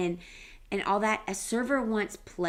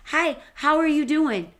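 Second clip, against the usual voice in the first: bright, higher friendly hello to a passer-by; upbeat street hello; cheery greeting; 6 semitones higher, 5 dB louder than usual. Retold or imitated. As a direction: greet a stranger with a lift in the voice. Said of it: "but I'm like".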